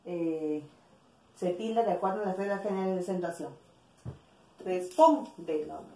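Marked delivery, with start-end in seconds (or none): 4.6-5.8 Respóndenos said slowly with a strong PÓN; stress on antepenultimate syllable. Shown as a demonstration. Teacher showing an esdrújula word, slow stress on PÓN in Respóndenos. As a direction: slowly punch PÓN, then finish Respóndenos. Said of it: "esdrújula".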